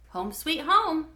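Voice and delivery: a lightly voiced dad welcoming kids home; cheery dad. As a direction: sing it out as you open the door. Dad arriving at apartment.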